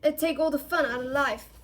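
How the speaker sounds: loud, appalled protest; emphatic distaste; revolted. A narrator's reading. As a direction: complain as if revolted by the idea. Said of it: "looking revolted at the very idea".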